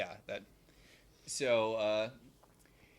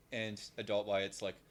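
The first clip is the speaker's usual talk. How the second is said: usual speaking voice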